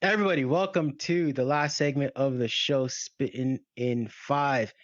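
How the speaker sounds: winded, catching breath; breathless after laughing hard. Real, not acted. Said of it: "I gotta catch my breath".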